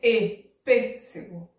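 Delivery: loud closed ê, then pêssego. Shown as a demonstration. Teacher explaining the accent, closed ê in pêssego. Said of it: "recebe acento circunflexo".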